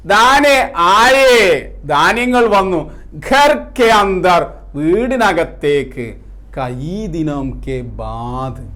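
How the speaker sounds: drawn-out phrases, strong calls then hushed refrain; poem recitation. Acted. Teacher reciting the second stanza to students, measured poem recitation.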